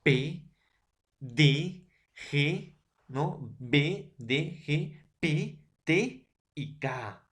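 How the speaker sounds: each consonant burst out slowly, one by one; slow, exploded B, D, G, P, T, K; plosive sounds demo. Shown as a demonstration. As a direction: pop every stop for the class. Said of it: "Por ejemplo".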